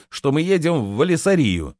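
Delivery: indignant high-pitched question; flaring up. A narrator's reading. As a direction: challenge them, bristling. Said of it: "взвился Рувен". (возмущённо, повышая тон)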